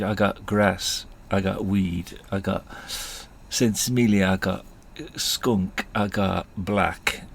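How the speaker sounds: mock Jamaican accent, slow listing; bad Jamaican accent. Rasta listing his stock to two boys, mock Jamaican accent. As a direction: reel off a menu in put-on Jamaican. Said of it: "worst Jamaican accent you're ever gonna hear".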